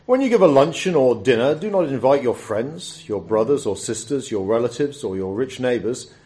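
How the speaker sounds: measured Bible reading, lively for the quoted voices; scripture reading. Acted. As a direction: read the passage aloud to the congregation. Reads the Bible passage aloud.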